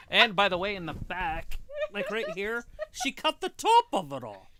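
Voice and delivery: worked up and griping; upset about haircut. Real, not acted. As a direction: complain with rising indignation. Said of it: "He's very upset about his haircut".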